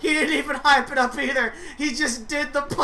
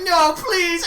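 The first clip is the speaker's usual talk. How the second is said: mock pleading; 6 semitones higher, 4 dB louder than usual. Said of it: "He's like".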